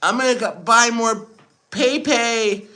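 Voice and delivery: high-pitched mock leader voice; Xi Jinping. Streamer imagines Chinese leader announcing coin purchase, high mock voice. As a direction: play the leader as a silly high caricature. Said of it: "Xi Jinping's like".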